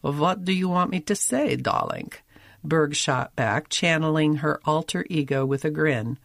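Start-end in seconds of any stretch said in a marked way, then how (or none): 0.0-2.1 lightly voiced Yiddish accent; a hint of a Jewish immigrant mother; Molly Goldberg voice. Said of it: "a taste of her character's voice".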